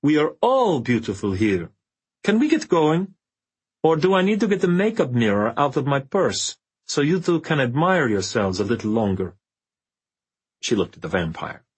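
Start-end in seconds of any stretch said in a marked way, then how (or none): 0.0-9.4 put-on sardonic old witch voice.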